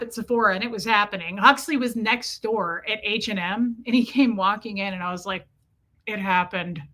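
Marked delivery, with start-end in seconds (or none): 6.0-6.8 discreetly out of the side of the mouth; covert, barely moving lips; side-of-mouth aside. Retold or imitated. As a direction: confess through one corner of the mouth. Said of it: "talk out of the side of your mouth".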